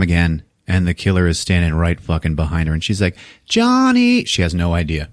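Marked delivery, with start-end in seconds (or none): 3.5-4.2 very high, drawn-out put-on call; imitated girlfriend calling. Unaware Pam calls for her boyfriend, mock plaintive. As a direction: sing out the name in mock-girlish voice.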